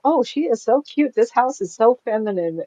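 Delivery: high-pitched imitation of admiring visitors; mock gushing. Visitors admire her floral house, imitated gushing. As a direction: gush as an impressed guest would.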